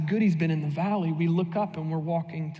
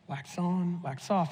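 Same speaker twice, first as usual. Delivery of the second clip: softer, murmured repeat of "Wax on, wax off"; quiet echo; 5 dB quieter, slower than usual. Retold or imitated. Preacher savouring the famous movie line, softly murmured. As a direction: say it under your breath like a remembered line. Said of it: "echoes the catchphrase quietly".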